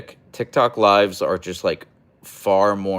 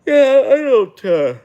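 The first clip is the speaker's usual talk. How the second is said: high burst of laughter; laughing; 11 dB louder, slower than usual. Real, not acted. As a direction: laugh out the reply. Laughing reaction to cry joke.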